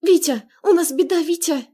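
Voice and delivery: high, loud panicked cry into the phone; panicked shout. Acted. Sister calling her husband for help, panicked shouting. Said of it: "Объятая паникой кричала она в трубку".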